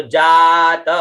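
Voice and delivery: जातमग्रतः chanted with Vedic pitch accents; mantra recitation. Shown as a demonstration. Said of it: "अब इसका स्वर देखिए". (वैदिक स्वर में जातमग्रतः)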